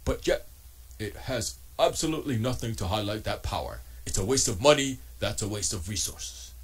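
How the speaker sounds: mildly mock his dismissive verdict; Jose Betancourt's voice. Quoting a rival host in his voice, mild impression. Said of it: "let me do it in his voice".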